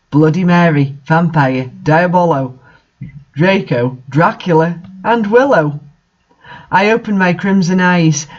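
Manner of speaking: dry story read-aloud, mostly even; deadpan fanfic reading. Acted. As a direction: read the fanfic straight-faced, letting it sink itself.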